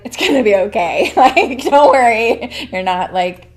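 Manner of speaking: a hint of a mom comforting through laughter; mom reassuring. Mom laughing while comforting her crying pregnant daughter, lightly voiced. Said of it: "She's like".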